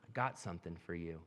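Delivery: a gentle near-whispered invitation; soft whisper. Pretend. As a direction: say it quietly like a secret gift. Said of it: "he whispers and says".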